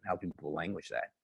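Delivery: broken up, fading connection; call dropping out. Real, not acted. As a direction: voice cutting out on a bad line. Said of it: "you're breaking up there".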